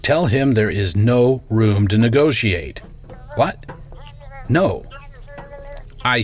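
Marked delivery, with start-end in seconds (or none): 0.0-2.8 firm refusal. Acted. Boss refuses lawyer on phone.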